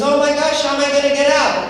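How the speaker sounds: panicked goat. Acted. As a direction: blurt it out stuck in the well. Goat trapped after fox escapes.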